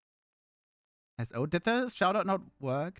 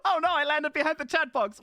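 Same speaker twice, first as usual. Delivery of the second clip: higher, louder words through laughter; laughing; 11 semitones higher, 5 dB louder than usual. Real, not acted. Avatar landed behind the chat box, she laughs it out. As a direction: giggle it out in disbelief.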